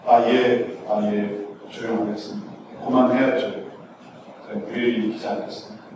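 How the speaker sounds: low, soft, submissive mumble; meek compliance. Acted. Rebuked beggar promises to keep quiet, meek compliance. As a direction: give in quietly and meekly.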